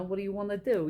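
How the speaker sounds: light mock New York girlfriend accent; a touch of New York accent with a laugh; imitated city accent. Girlfriend to her boyfriend, playful New York accent. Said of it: "And she talks like that too".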